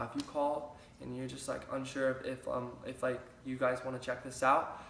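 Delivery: soft, hesitant and unsure, trailing off. Shown as a demonstration. Coach showing the wrong timid invite, unsure and soft. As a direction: mumble it like you doubt yourself. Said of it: "it's not gonna work".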